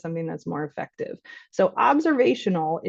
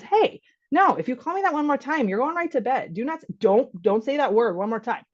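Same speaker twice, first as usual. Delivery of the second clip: a dad threatening bedtime, pitched up; stern father; 5 semitones higher than usual. Retold or imitated. Father warning his young child off rude names, stern scold. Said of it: "so he says".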